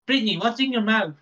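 mock questioning carer. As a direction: playfully grill the kid about her cheeks. Carer voice continues.

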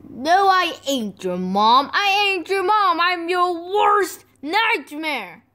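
insistent high protest; exasperated. Acted. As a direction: push back, annoyed. Denying being mother.

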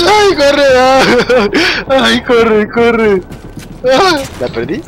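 panicked cries to run; breathless frightened yelling; being chased. Real, not acted. Still being chased in game. (gritos asustados mientras huye)

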